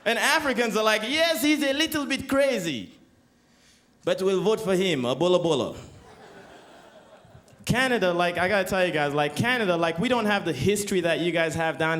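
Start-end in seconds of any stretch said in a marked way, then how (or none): 1.0-5.8 a light put-on African accent; mock African voter. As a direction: voice a casual voter endorsing madness. Voters voiced.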